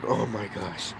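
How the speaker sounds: very soft, low "oh my gosh"; relieved. Retold or imitated. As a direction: let the tension drain out of the voice. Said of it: "I was so relieved".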